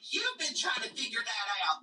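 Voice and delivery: put-on affectionate copy of a Southern accent; imitated Southern accent. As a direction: playfully echo a friend's Southern accent. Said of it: "the way you said".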